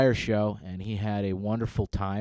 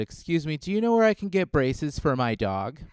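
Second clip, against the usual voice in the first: higher-pitched passerby asking a question; politely inquiring, pitched up; imitated lady; 5 semitones higher than usual. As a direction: lightly mimic a woman stopping a stranger.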